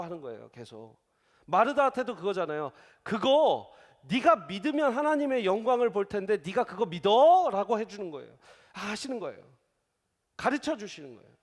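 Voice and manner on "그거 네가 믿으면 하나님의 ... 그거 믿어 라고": Jesus asking Martha. Acted.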